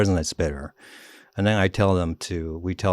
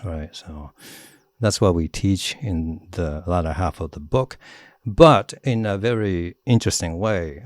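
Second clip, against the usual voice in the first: ordinary delivery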